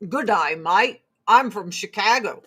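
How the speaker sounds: put-on deliberately wrong Australian accent; joking Aussie accent; mock Australian accent. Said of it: "That's not their accent".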